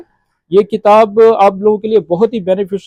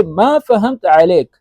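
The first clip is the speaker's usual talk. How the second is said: slow demo; slower than usual. Shown as a demonstration. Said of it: "तो इसको अरबी में बोलेंगे".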